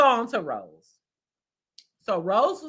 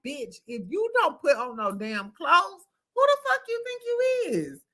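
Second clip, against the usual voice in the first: mock scolding; 7 semitones higher than usual. Imagined girlfriend scolding Eddie about his clothes, outraged high squeal. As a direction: pitch jumping way up into an outraged squeal.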